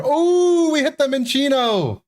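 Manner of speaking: high squeal of delight at a big pull; shrieking jackpot winner. Real, not acted. Pulls a chase card.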